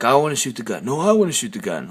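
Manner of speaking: lightly imitated kids' squabble, rising and falling; mock two boys bickering over a toy; squabbling boys. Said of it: "two boys were fighting over the airsoft gun".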